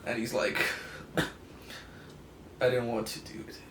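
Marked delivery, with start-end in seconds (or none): 1.2-3.6 breathy Hulk plea. Acted. Hulk pleads he didn't choose it.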